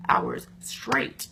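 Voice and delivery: slow, hushed whisper for effect; a dramatic whispered aside; whispered emphasis. Real, not acted. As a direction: drop to a whisper to stress how long. Complaining about her heels.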